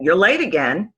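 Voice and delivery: blunt, accusing correction; curt telling-off; blunt reprimand. Shown as a demonstration. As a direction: state it firmly, as a fed-up boss. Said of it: "That's got a different feel than".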